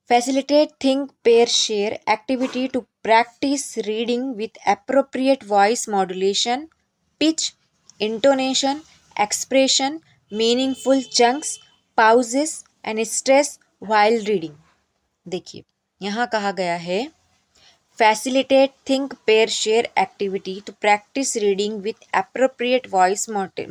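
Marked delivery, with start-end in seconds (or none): 0.1-14.5 reads the English point out very slowly, word by word; slow dictation reading. Acted. Teacher reading the training point aloud to trainees, slow and deliberate. 18.0-23.6 reads the English point out very slowly, word by word; slow dictation reading. Acted. Teacher reading the training point aloud to trainees, slow and deliberate.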